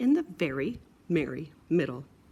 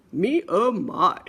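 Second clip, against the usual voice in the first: slow mock father; 6 dB louder, slower than usual. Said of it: "said Piggy's father".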